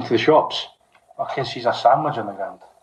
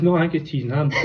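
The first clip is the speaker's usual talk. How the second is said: laughing; 2 semitones higher, faster than usual. Retold or imitated. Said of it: "He goes".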